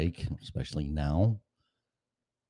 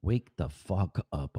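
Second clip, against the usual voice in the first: slow, drawn-out wake the fuck up; exasperated urging; 5 dB quieter than usual. Real, not acted. Host urging himself awake before work, slow and exasperated. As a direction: drag each word out in weary exasperation.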